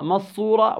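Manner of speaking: مصورة with the n swallowed into a doubled s; merged idgham. Shown as a demonstration. Tajweed teacher shows the mistake, n merged into مصورة. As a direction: drop the noon and double the saad in مصورة. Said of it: "إدغام".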